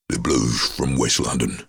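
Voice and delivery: slow Cockney sports promo; measured Cockney voice-over for a big clash; Cockney read. Shown as a demonstration. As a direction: announce it in slow, weighty Cockney. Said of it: "a really good Cockney read".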